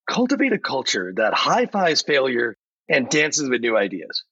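peppy motivational coach delivery, lightly voiced; upbeat AI chatbot voice. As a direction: pitch it like a cheerful AI giving a pep talk. For being the voice of Chat G P T.

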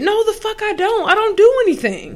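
high, loud furious denial; angry retort. Real, not acted. Ranting at co-host over his teasing, loud and angry. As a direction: snap back high and loud at the accusation.

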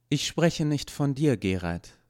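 a hint of a guilt-ridden android; android Ismir, remorseful. A narrator's reading. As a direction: Ismir confessing his failure to Gerald, earnestly. Ismir voiced by narrator.

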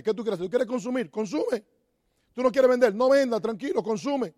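no pressure, just calm them down; reassuring advice. Retold or imitated. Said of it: "Yo le digo a la gente".

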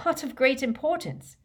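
high-pitched disbelieving echo of the words; disbelief, voice jumping high; incredulous. A narrator's reading. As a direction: throw it back as an incredulous question. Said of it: "repeated Harry incredulously".

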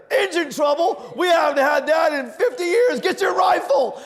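hammed-up old man raising the alarm. Old man mishearing his son from another room, high alarmed shout. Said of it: "there's an old man who's in".

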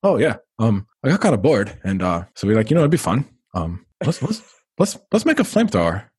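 offhand, lightly voiced Elon; the host imitating Elon's nonchalance; casual Elon. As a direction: shrug it off like it's nothing. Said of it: "He said that casually".

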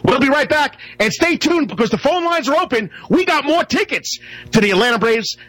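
upbeat radio promo read; sports talk host. Acted. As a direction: sell the break like a station host. Radio break and ticket promo.

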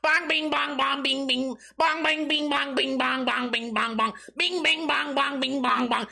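high, endless mocking chant; goofy mimicry. Comic mocking two grown men at each other, goofy high chant. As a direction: drone the silly bounce noises on and on.

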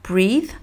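a short clean breathe, th at the end; English pronunciation. Shown as a demonstration. Teacher modelling breathe after explaining th. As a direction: breathe with a long ee, th as best you can. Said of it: "faire du son T H".

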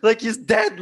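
high, loud mock panic shout; panicked shout. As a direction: shriek that he's dead, hammed up. Friends panic in retold scene.

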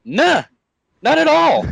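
high sheepish denial. Retold or imitated. Retold answer.

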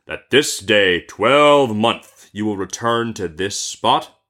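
slow, solemn genie voice; genie demanding an oath. Acted. Genie makes merchant swear to return, slow stern voice. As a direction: draw out the terms of the oath. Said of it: "cried the genie".

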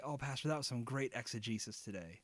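offhand, breezy compliment to the pastor; very casual. Pretend. Congregant casually praising the pastor after church, offhand and breezy. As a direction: toss it off like it's nothing. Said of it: "just very casually just say".

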